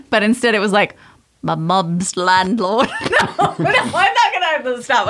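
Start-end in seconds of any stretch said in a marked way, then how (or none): 1.4-2.9 put-on slow British accent sliding into Australian; drawn-out, badly faked British-Australian accent; botched British accent drifting Australian. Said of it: "that got weird and Australian". 2.9-5.1 high-pitched, helpless laughing words; real giggles, voice shooting up; cracking up. Real, not acted. Cracks up at own failed accent.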